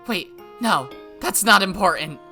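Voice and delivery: loud, high screams of her name; desperate shouting. Acted. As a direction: scream so she can hear you. Call louder.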